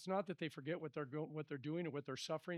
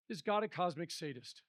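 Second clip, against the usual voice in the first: raised voice putting an accusing question; understated yell at God; mild quoted yell; 5 dB louder than usual. Acted. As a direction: challenge God loudly, stopping short of a yell. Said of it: "It was rather a yell".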